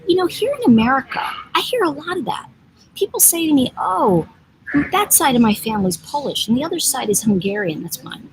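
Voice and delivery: light imitation of a Polish woman's broken English; a hint of a Polish accent, voice lifted high. Woman from Poland at the airport, in mild Polish-accented English. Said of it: "she had a very broken English accent".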